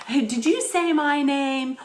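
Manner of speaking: mocking an in-your-face demand; confrontational demand. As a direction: get up in her face with it. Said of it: "Getting all up in her face".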